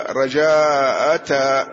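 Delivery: رجاء أتى with a drawn-out long aa before the final ta; long alif with ta. Shown as a demonstration. Teacher showing a student the variant, رجاء أتى with long alif. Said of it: "الألف الممدودة".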